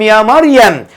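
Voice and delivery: drawn-out, measured recitation; slow verse recitation. Shown as a demonstration. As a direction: stretch the final vowel of اقنطي, then pause. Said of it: "لما ربنا بيقول لستنا مريم".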